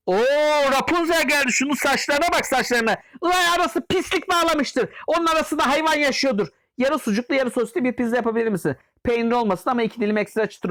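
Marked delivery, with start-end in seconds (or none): 0.1-6.5 mocking disgust. Mocking customer's hair.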